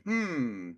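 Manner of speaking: light, falling "hmm"; lighter curious hum. Shown as a demonstration. Man showing how to lighten up, lighter curious hum. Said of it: "but in a lighter way".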